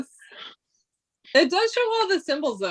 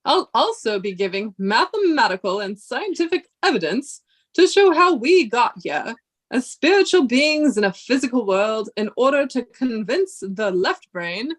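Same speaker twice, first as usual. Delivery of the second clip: measured, solemn lecturing read; professor voice. Acted. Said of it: "do you like my professor, um, voice?".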